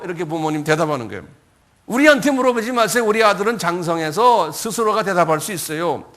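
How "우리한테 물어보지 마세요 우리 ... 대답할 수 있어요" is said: raised voice, acted protest; loud opening, settling as it goes; parents deflecting questions. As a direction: push the question away emphatically.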